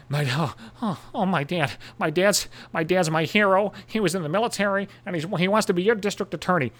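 mock halting kid reading a script; candidate's struggling daughter. Mocking a candidate's daughter reading his ad, halting kid voice. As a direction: stumble through it like a bad child reader. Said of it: "listen to her struggle through the goddamn read".

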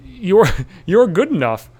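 laughing through a mock reading. Comic mocking the chest tattoo, laughing slowly. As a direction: chuckle as you read it out, slow. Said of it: "you might have some self-esteem issues".

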